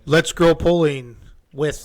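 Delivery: slow drawn-out spooky voice; creepy voice. Pretend. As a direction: stretch it out like a ghost. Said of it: "do the creepy voice".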